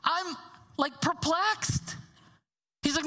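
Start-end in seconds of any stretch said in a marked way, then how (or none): 0.0-2.0 perplexed. Retold or imitated. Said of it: "He goes".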